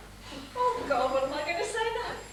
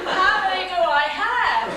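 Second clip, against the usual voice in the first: sarcastic retort; 10 dB louder, slower than usual. Acted. Wife snapping back at husband.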